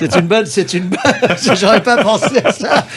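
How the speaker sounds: laughing while talking, amused. Real, not acted. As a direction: chuckle through the words. Amused by the druckeriser quip.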